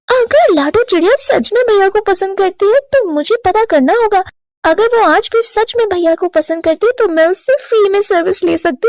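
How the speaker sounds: sly inner voice of a plotting little bird; scheming sister's thoughts. Acted. Tuntuni plotting against her sister-in-law, sly inner voice. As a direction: think it through like a schemer.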